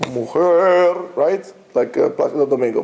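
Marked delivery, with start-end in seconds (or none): 0.1-0.9 "mujer" with a long, exaggerated throaty KH; exaggerated Spanish J. Shown as a demonstration. Teacher hammering home the Spanish sound, "mujer" with drawn-out KH. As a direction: rasp out the J of "mujer" as KH. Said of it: "is pronounced as a chet".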